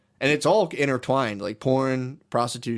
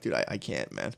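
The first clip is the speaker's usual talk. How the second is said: much lower and softer, mock queasy; low disgusted mutter; 12 semitones lower, 9 dB quieter than usual. Himself listening to the escort interview, low and queasy. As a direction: groan it out low, half-joking. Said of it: "and I'm like".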